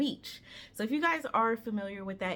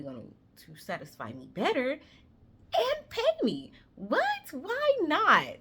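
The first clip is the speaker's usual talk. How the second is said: imitating her younger self. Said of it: "I was like".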